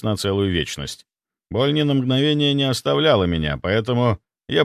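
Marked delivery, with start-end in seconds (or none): none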